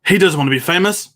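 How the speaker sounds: high, loud barking newspaper editor; J. Jonah Jameson impression. Host doing Jameson with a pen as cigar. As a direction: bark it like a gruff editor with a cigar. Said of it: "Jonah Jameson from Spider-Man one".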